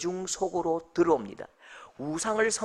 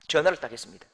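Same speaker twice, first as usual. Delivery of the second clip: normal talking voice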